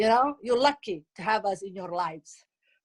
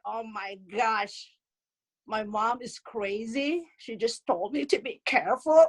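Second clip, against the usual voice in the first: imitated daughter. Daughter griping on the phone about mom, imitated in exasperation. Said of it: "my daughter would be like".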